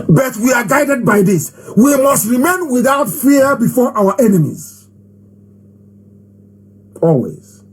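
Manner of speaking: political preacher rallying the faithful; impassioned oratory. Acted. Leader reminds followers of their sworn job, exhorting. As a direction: drive the creed home to your followers.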